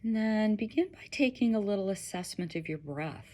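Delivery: gentle guiding voice with long pauses; unhurried, slightly hushed meditation guide; guided meditation. Acted.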